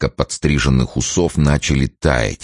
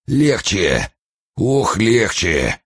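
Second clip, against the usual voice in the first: pained moan; 6 semitones higher, much slower than usual. Acted. Frozen man in pain.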